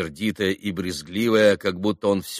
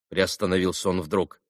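usual speaking voice

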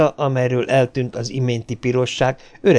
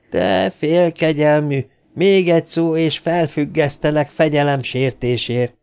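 trembling with fury; 4 semitones higher than usual. Acted. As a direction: threaten him, barely holding back rage. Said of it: "alsó ajka remegett az indulattól".

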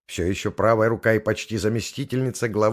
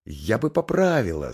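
flustered. Acted. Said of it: "сбивчиво объяснила Макс".

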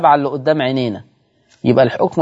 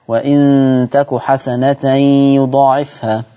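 تلاوة. Shown as a demonstration. Recites a Quranic verse.

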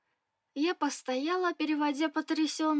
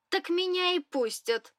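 sceptical grimace; 5 semitones higher than usual. Acted. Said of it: "скривилась в ответ".

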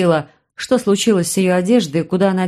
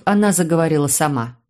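plain reading voice

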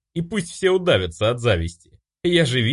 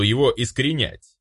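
plain reading voice

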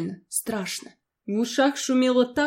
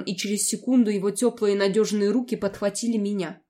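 plain reading voice

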